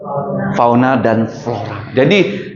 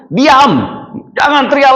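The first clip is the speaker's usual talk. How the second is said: stern rebuke; 12 semitones higher than usual. Retold or imitated. Crowd rebukes the blind men.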